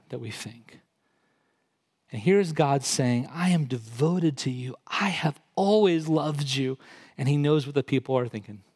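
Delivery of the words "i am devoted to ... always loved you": tender assurance. Acted. God's words, softer restatement.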